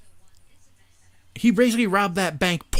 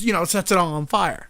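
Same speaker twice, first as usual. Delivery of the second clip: ordinary talk, nothing marked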